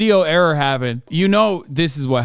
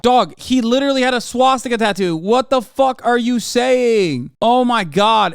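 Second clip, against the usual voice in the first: exasperated disbelief; 6 semitones higher than usual. Real, not acted. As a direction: plead with them in sheer exasperation. Arguing back at the played clip.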